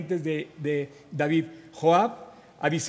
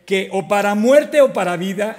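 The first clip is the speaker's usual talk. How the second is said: louder, rising fervent vow on muerte; fervent oath; 6 dB louder than usual. Acted. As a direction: swear it loud like a loyal soldier. Itai's oath of loyalty to king.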